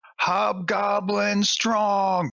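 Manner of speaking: high, yelled battle cry shout. A player swinging a bow around a tree yells in character. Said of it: "and I yell".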